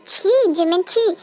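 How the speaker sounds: a scornful छी Jimin, spat out; disgusted. Acted. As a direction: sneer the word छी in contempt. Husband disgusted, storming out. (घृणा से छी Jimin कहना)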